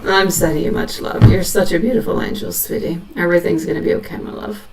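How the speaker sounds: soft, gentle reassuring reading; tender medium message. Acted. Medium comforting a grieving mother, soft and tender. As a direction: speak softly as if passing on a spirit's words.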